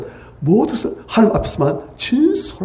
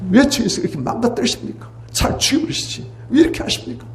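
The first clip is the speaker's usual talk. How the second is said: much higher, rising "왜" flung at the storm; crying out at God; 9 semitones higher than usual. Acted. Grieving man shouting into the storm at God, anguished outcry. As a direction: hurl the question at the heavens. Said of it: "하나님께 대드는 거예요".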